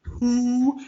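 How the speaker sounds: mock squawked who. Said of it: "and you're like".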